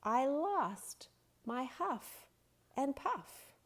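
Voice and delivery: high, strained wolf voice gasping for air; breathless wolf. Acted. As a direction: sound like a wolf who can't catch his breath. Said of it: "said the breathless wolf".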